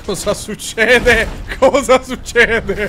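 loud, slow, stretched-out question; drawn-out bewildered. Pretend. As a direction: act baffled, dragging each word. Mock bewildered at game fight.

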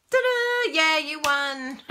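high ta-da then slow announcement; mock ta-da. Imagining announcing winners, playful high ta-da. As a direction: fanfare her own win announcement. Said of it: "I'd be like this".

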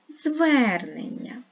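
drawn out slowly, syllable by syllable; slow syllable-split reading. Shown as a demonstration. Teacher slowly splitting the word for pupils. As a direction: spell out each syllable slowly. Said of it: "поділимо його на склади".

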